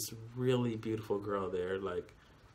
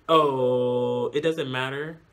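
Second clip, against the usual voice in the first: retold casual deferral; 2 semitones higher, 8 dB louder, much slower than usual. Retells her reply to waiter.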